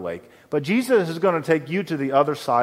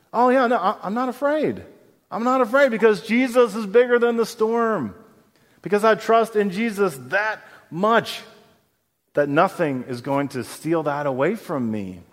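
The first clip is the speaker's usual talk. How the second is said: high, lightly voiced fearless believer; confident believer; 7 semitones higher than usual. Preacher voicing a fearless Moravian believer, light and high. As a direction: voice a calm believer, unafraid. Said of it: "Can you imagine that kind of faith?".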